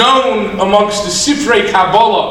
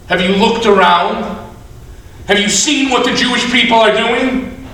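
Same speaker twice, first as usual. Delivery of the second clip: distressed complaint; 3 semitones higher than usual. Acted. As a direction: complain as if you're being ruined. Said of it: "the Satan's a mess".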